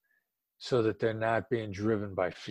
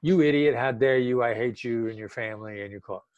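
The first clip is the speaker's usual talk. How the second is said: mock insult. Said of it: "which your tone of voice is saying".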